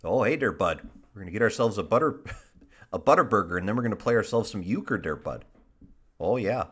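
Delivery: folksy put-on Wisconsin accent; playful Midwestern patter. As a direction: ham up the Midwestern vowels.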